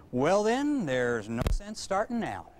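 dry comeback with a chuckle; deadpan dad. Retold or imitated. Dad answers son's complaint with a dry deadpan. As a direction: toss it off without breaking stride. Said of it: "without even missing a step".

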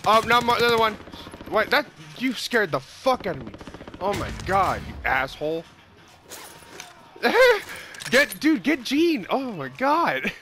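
startled yell breaking into laughter; yelp, then high helpless giggles; scream into giggles. Real, not acted. Jump scare, then laughing.

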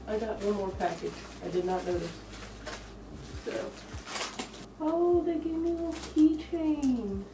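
muffled through thick fur mask; speaking inside a mask head. Real, not acted. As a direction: voice enclosed by costume head. Seen 2: Full fursuit head worn over face throughout, head mostly bowed.

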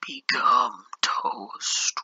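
hammed-up dramatic farewell; slow, ominous mock bread voice. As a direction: intone it slowly like a doomed loaf. Bread character's end.

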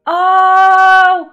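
sharp loud cry of pain, pitch up; pained loud ouch. Real, not acted. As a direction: yelp as if it hurt you. Wincing at painful pose.

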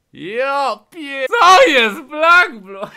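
high drawn-out laughing yell; laughing shout. Real, not acted. Stunned by gold bar donation.

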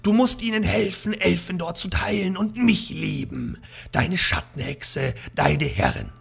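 lightly voiced witch. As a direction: gloat over the captured hero.

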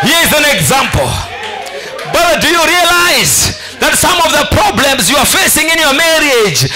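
forceful, punchy sermon delivery; preaching. Real, not acted. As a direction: preach it out to the congregation in bursts.

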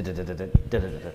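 low clicking "da da da" of a dial spinning back; rotary phone impression. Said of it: "It's a good impression of a rotary phone".

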